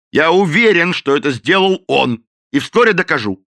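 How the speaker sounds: loud, high insistence; the captain insists to Madden that the cook did it; stubborn loud insistence. A narrator's reading. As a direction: dig in and insist.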